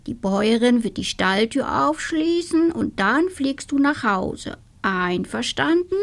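the rooster calmly settling the witch; reassuring rooster. Acted. (beruhigender Hahn, langsam)

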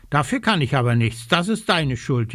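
fast, mild whiny complaint; a touch of raven whining. Acted. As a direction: whine to push the blame. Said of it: "jammert der kleine Rabe".

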